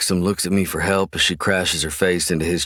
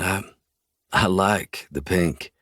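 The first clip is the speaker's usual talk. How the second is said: soothing; slower than usual. Acted. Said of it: "I rub slow circles".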